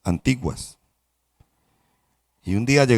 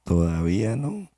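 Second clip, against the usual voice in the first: master from outside; 6 dB quieter than usual. Acted. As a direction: call not yet from outside the kiln. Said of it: "desde afuera me decía".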